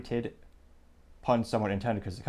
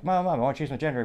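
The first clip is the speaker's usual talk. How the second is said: put-on higher, louder, fast excited child; eager kid; 4 semitones higher, 4 dB louder, faster than usual. Kid telling mom he wants a change, eager and fast. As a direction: blurt it out like a thrilled little kid. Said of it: "And kid goes back".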